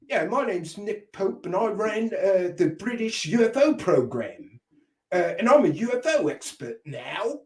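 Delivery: mock British accent, softly put on; badly faked British boast. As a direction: attempt a British accent and miss. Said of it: "can't do a British accent".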